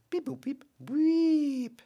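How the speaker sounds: high droid beeps. Retold or imitated. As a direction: beep like a little droid. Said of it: "rating would be like".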